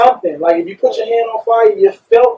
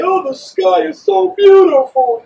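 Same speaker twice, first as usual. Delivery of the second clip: hammed-up dreamy voice, higher and slow; mock sentimental man; 11 semitones higher, 4 dB louder, slower than usual. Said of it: "I ain't saying walk around and be crying all day".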